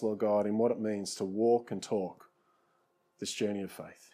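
earnest closing prayer, softening toward the end; pastor's closing church prayer; heartfelt prayer. Real, not acted. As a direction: pray sincerely over the congregation.

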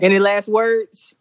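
slow, menacing "any last words"; villain voice. Pretend. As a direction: ask it like a movie villain. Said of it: "I don't wanna sound like a villain".

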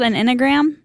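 "enneagram" said as INN-a-gram; syllable dropped from enneagram. Real, not acted. Host unsure of the test's name, "enneagram" shortened to INN-uh-gram. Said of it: "You're missing the A".

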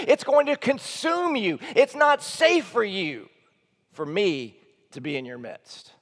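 God speaking. Acted. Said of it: "What he's saying is".

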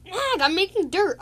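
annoyed at being bothered; exasperated snap. Retold or imitated. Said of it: "Stickpool was like".

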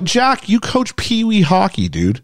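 slow, high, mocking disbelief; incredulous scoff. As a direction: scoff at him like it's obvious. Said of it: "I'm like".

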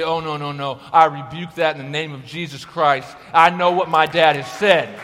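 building to a loud rebuke; rebuking shout. Retold or imitated. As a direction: rebuke it with rising force. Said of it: "you say".

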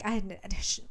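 stammering mock panic; retold panic. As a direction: trip over the first words, imitating her panic. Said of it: "she's, like, panicking".

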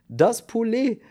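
stammering through laughter. A narrator's reading. Kern laughing helplessly at the man with the chicken. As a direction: barely get the words out between fits of laughing. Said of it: "stammelte er".

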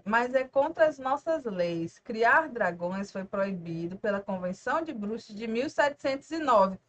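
lento e solene, como quem recita lei; lendo devagar, formal. Retold or imitated. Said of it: "o Rony fala assim". (Rony recitando a lei, devagar e solene)

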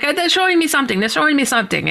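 a hint of an excited Puerto Rican accent; thick Puerto Rican accent. Roommate back from the trance, thick Puerto Rican accent. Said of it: "thick accent".

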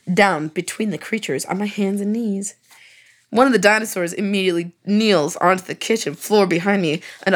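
mock-serious erotica narration over music; deadpan romance-novel reading; dramatic story reading. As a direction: read it like a steamy audiobook, straight-faced. Reads story aloud.

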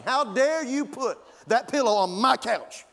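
mock outraged pet scolding its owners; indignant dog voice. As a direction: play the dog furious about the pillow, rising high on the last question. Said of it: "that's exactly how she'd act".

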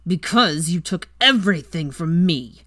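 a captive Weasley hurls blame, slow and loud; spat with vehemence. Acted. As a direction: spit it at her with venom. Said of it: "he spat with vehemence".

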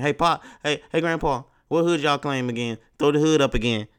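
mock grandkid calling out loudly; teasing grandkid. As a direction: call out to Grandpa, egging him on. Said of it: "He gonna get his friend".

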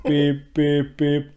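short, evenly spaced beeps; beep, beep, beep like a truck alarm; imitated truck beeping. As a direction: mimic a reversing garbage truck's beep.

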